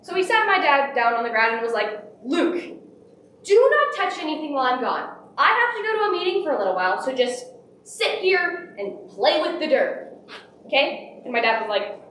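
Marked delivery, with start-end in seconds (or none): 2.2-11.2 stern instruction. Retold or imitated. Grandfather instructing his young son.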